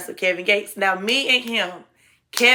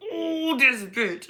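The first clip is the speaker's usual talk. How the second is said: annoyed; 5 semitones higher, slower than usual. Retold or imitated. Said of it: "I'm so heated".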